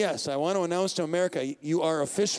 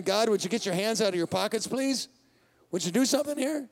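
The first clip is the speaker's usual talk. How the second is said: pleading with God; 4 semitones higher than usual. Acted. Voicing the psalmist pleading God.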